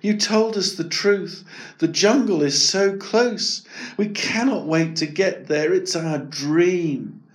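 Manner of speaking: yearning for the jungle; Miko the elephant, dreamy. Acted.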